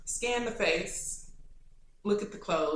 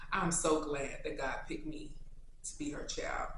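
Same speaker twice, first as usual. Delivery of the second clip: tearful; 5 dB quieter than usual. Real, not acted. Emotional tribute to mother.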